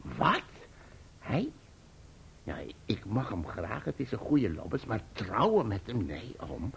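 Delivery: lightly voiced, hushed startled girl; startled niece. Uncle retelling Emily's startled refusal, softly voiced. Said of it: "ze schrikt".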